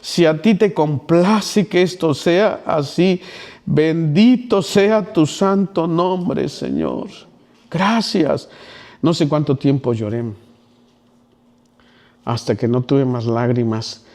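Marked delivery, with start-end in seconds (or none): 0.0-8.5 weeping prayer. Retold or imitated. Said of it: "ahí estuve llorando".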